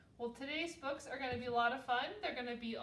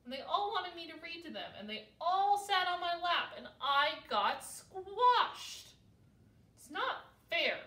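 raised, indignant little-one grievance; aggrieved complaint; 5 semitones higher, 6 dB louder than usual. A narrator's reading. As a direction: build to a loud, emphatic complaint. Owl complains to dad of squashing.

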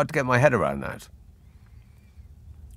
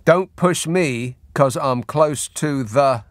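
mock warning; slower than usual. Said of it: "I'm at the end of my tether".

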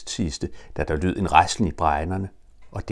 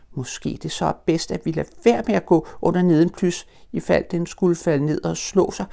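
high, quick nervous little voice; timid Piglet; 12 semitones higher than usual. Acted. Piglet suggests to Pooh they avoid the tree, high and nervous. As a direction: talk himself out of danger.

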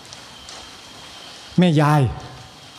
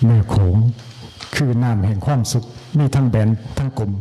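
low, mock-solemn whisky-ad voice, tongue in cheek; mock drinker's slogan; 5 semitones lower than usual. Monk jokes to his listeners with a low mock liquor-ad line. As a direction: intone it like a boozy liquor slogan. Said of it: "มันแม่นบ่?".

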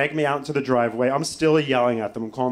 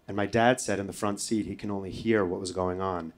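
usual speaking voice

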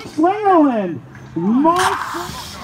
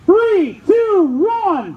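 drawn-out countdown call; starter's countdown; much slower than usual. Real, not acted. Starter counting woodchoppers in, drawn-out countdown. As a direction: call each number out long and evenly.

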